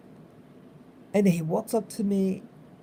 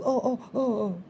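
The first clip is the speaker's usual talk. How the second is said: mock flustered neighbour; 5 semitones higher than usual. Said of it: "like that".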